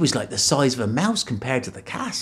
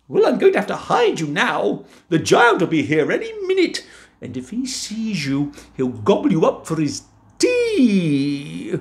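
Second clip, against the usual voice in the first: higher, urgent wife voice; giantess warning; 9 semitones higher, 3 dB louder than usual. Acted. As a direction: warn him about the giant. Wife warns Jack.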